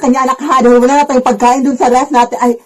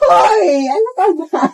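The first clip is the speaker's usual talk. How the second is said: shocked shout; 6 semitones higher, much slower than usual. Acted. Mother caught begging, high startled outcry. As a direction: shriek it out caught off guard.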